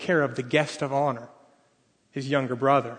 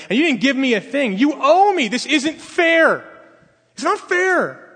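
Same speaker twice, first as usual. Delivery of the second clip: whining; 3 dB louder than usual. Retold or imitated. Older son whining to his father, building to a loud wail. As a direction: complain like a wronged child, building to a wail. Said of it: "he starts whining".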